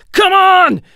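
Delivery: high, loud taunting roar; roaring challenge. A narrator's reading. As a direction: dare the enemy to come. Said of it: "he roared".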